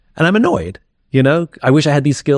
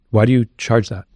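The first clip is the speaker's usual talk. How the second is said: blunt question. Retold or imitated. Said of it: "That's how I asked the question".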